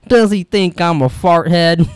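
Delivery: lightly acted indignant question, slowed down; mildly put-on movie line; movie character quote. Quoting the character from the film, lightly mock-indignant. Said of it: "that's when he goes".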